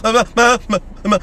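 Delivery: mock bawling for parents; imitated child crying. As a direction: wail like a hurt kid. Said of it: "I came crying to my parents".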